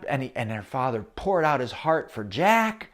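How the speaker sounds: usual speaking voice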